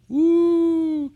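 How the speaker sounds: high, bright whoop of delight; excited whoop. Real, not acted. Preacher whooping to congregation about the coronation, excited. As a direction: cheer like you want tickets.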